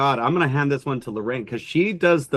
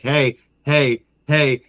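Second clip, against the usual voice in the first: firmer hey; much slower than usual. Shown as a demonstration. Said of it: "higher levels, it's more like".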